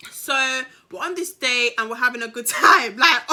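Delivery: giggling through the line, about to crack up; laughing through it. Real, not acted. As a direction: say it while the laughter bubbles up. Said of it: "Sorry, I had to do that outburst".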